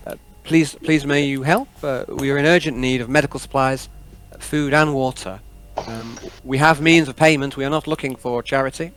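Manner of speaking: Captain Malia. Acted. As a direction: appeal for help over the comms. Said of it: "and she goes".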